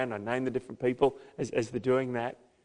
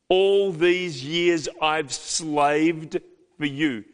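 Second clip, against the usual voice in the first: put-on resentful older son; 3 semitones higher, 6 dB louder, much slower than usual. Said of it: "this is now the words of the older son".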